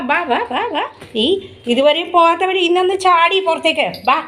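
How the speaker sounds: hoger, lokkend roepen naar het dier; coaxing the pet. Real, not acted. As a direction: lok hem zingend naar je toe.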